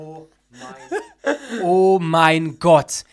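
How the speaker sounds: oh mein Gott through laughter, slow and loud; real laughter; laughing. Real, not acted. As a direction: barely get the words out for laughing. Reacting to absurd joke, laughing.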